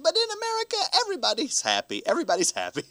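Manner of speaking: light mock Russian friend, delighted. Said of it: "She said".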